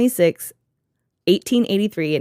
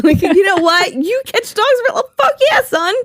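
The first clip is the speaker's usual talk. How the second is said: mock bro voice; 14 semitones higher, 4 dB louder than usual. Mocking the dog catcher's friendliness.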